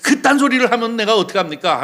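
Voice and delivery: acted-out disciple's complaint; indignant protest. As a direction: argue back as if betrayed. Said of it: "하면서 항변하는 의미를 말하는 거죠".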